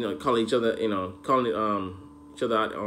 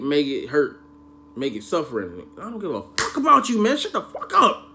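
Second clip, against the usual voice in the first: high, loud, furious outburst; a hammed-up, screaming tirade at the villain; furious rant; 5 semitones higher, 4 dB louder than usual. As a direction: yell at him with total contempt. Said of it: "I'm like".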